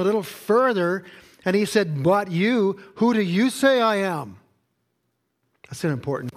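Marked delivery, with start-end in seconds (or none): 2.0-4.4 higher and louder, pushing for an answer; pressing question. Acted. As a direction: demand it, voice raised. Jesus pressing his disciples.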